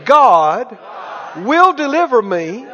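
phrase by phrase for repeating; out-loud declaration. Shown as a demonstration. Preacher leading people to say it out loud, measured declaration. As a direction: lead a congregation in an emphatic confession. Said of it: "say it out loud".

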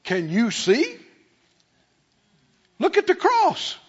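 mock angry complaint. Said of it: "get mad and shake a fist and go".

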